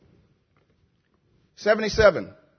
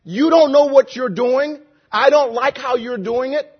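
raised, confrontational complaint; challenging God; 4 semitones higher, 4 dB louder than usual. Shown as a demonstration. Preacher showing how he did not ask, challenging complaint. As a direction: accuse loudly, pitched up. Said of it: "It wasn't like he was looking at God and saying".

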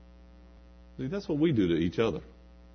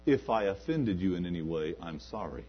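mock half-apology; 3 semitones lower than usual. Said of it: "never to say".

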